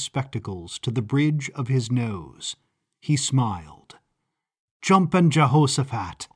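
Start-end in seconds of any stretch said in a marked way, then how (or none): 4.8-6.3 a mild, cheerful exclamation; exclaimed. Acted. Professor greeting Elizabeth with a mild glad exclamation. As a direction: greet her with happy surprise. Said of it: "he exclaimed".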